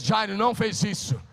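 "Jairo não fez isso" proclaimed loud and high, punching "não". Shown as a demonstration. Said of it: "Diga, Muniz".

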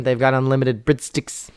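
put-on South African accent, tight vowels. Shown as a demonstration. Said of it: "and then a South African".

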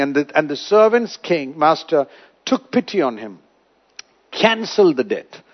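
ordinary talk

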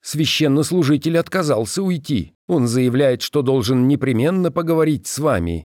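high-pitched subordinate's report; reporting adjutant. A narrator's reading. Adjutant telling the commander of the clergyman's refusal, reporting.

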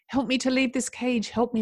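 crying out. Acted. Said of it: "Madeline cried out".

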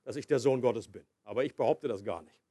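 mock evasive Jesus. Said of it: "als würde Jesus sagen".

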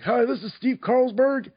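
high-pitched, perky character greeting; put-on high character voice; Steve Carlsberg as remembered. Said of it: "All I remember was me going".

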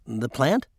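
"plant" lifted into a questioning rise; puzzled echo. A narrator's reading. Husband asking wife about "plant", puzzled rise.

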